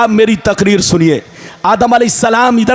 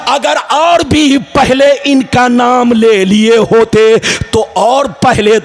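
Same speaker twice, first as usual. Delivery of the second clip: rhythmic, chanting sermon delivery with stretched words; full-force preaching; 2 semitones higher than usual. Acted. Preacher relays God's question to Adam, rhythmic chanted preaching. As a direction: preach it in measured, ringing phrases.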